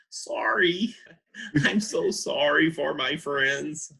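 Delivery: high, drawn-out sheepish apology; apologetic. Acted. Magic message apologizing to bartender.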